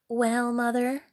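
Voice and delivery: pert, rising comeback; rude reply. Acted. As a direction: throw the question back rudely. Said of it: "replied the rude girl".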